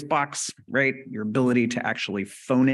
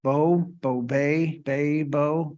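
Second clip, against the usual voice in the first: groping apraxic syllables; 3 semitones higher, much slower than usual. Shown as a demonstration. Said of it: "they will say things differently".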